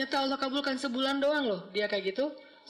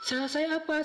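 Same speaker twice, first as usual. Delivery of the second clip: exasperated question; 7 semitones higher than usual. Retold or imitated. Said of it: "saya bilang".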